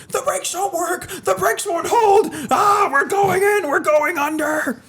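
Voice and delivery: put-on high, loud, slow old-time radio shout; old radio announcer voice. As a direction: belt it like a 1940s radio drama. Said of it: "Sounds like an old radio show".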